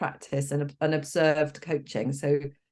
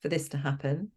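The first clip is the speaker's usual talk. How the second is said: soft coaching question; 6 dB quieter than usual. Shown as a demonstration. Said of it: "so we say things like".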